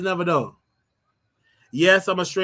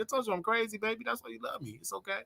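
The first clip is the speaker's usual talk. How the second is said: teasing coo; 6 semitones higher, 11 dB quieter than usual. Pretend. Teasing a loved one on live.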